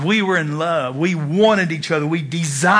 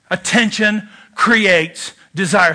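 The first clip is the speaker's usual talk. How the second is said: slow slogan; slower than usual. Shown as a demonstration. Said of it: "Say that with me".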